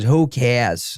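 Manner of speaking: heavy put-on Boston accent, laid on thick. Retelling what a drunk girl outside the show said, imitating a thick boston accent. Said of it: "That's dirty Boston".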